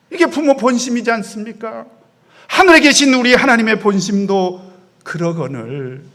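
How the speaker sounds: normal talking voice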